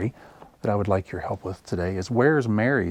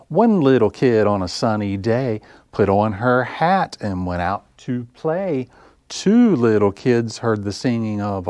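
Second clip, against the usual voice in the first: bouncy sing-song counting rhyme; lively story-time rhyme; rhyme for kids; slower than usual. Acted. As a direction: chant it for little listeners.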